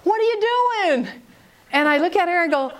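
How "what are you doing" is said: high sharp what are you doing; mock confrontation in the garage; confrontational. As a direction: get in their face with it. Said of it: "gets right in my face".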